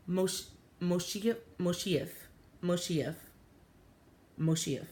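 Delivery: "Moshief" said haltingly, testing the sounds; trying out the name. Retold or imitated. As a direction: sound out "Moshief" slowly and softly. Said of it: "I think that's how he said it".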